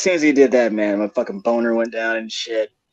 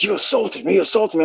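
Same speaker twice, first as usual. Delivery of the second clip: whiny accusation; 9 semitones higher than usual. Retold or imitated. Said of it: "He was like".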